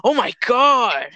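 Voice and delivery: high, whiny fake apology; mock fake remorse. James pretending to be sorry after punching, high whiny mock remorse. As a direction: ham up a guilty whine. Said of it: "And he's like".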